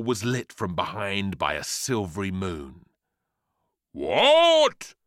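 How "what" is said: loud, high, outraged cry; demanding. A narrator's reading. Cabbage challenges the rhubarb, loudly demanding. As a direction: burst out in disbelief. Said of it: "demanded the cabbage".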